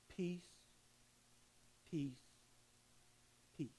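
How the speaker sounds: retold gently as Jesus spoke it; soft peace. Son retells Jesus speaking to his dying dad, soft and hushed.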